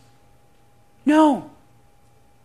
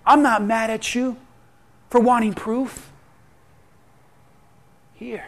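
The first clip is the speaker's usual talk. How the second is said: reassuring; 5 dB quieter than usual. Acted. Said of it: "He said".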